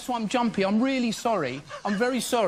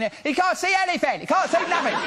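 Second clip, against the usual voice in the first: slightly higher mock wife voice; wife butting in; 4 semitones higher than usual. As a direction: lightly imitate a wife telling on her husband.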